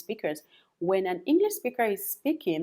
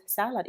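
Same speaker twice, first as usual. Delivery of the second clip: "salad" stressed on the first syllable; 4 semitones higher than usual. Shown as a demonstration. Teacher confirming the known word, first-syllable stress on "salad". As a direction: say "salad" as SAL-ud. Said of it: "stressing the right syllable".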